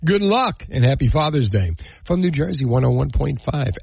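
big radio promo read; punchy announcer selling the prizes; booming prize announcer. Acted. Prize promo read over music.

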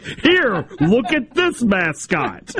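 high squeal of laughter through the words; laughing. Real, not acted. Cohost mocking an atomic bomb mascot, laughing. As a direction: barely get it out for laughing.

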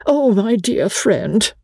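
high, slow gasp of dismay; shocked, high-pitched and drawn out. A narrator's reading. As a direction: draw it out high, as a shocked companion. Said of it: "Briggs gasped".

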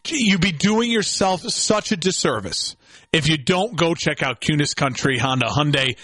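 upbeat live radio ad read. Acted. Host reading a dealership ad to listeners, upbeat ad read.

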